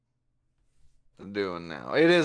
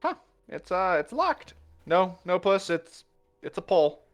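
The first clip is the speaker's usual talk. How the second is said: amused correction; 7 semitones higher than usual. Acted. Zenith corrects Puss at door.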